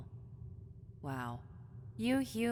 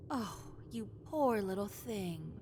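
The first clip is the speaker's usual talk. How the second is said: mock pity; 2 semitones higher than usual.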